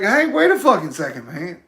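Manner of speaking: a playful "hold on there" as if interrupting; mildly hammed-up outrage; mock indignant protest. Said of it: "I'm like".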